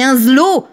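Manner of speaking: "zlo" for "slow", buzzing Z, drawn out; mocked regional "zlo". Wife asking her husband for a slow dance, mocked "zlo". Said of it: "tu dis à ton mari".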